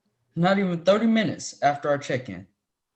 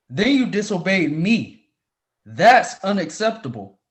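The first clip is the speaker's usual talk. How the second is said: firm, louder rebuke; stern scolding; 4 dB louder than usual. Acted. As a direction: lay down the law. Professor scolding student on phone.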